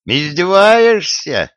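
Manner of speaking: hoch und langsam, empört hervorgestoßen; wütend. A narrator's reading. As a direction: fahr ihn wütend an. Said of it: "разозлился Гордон".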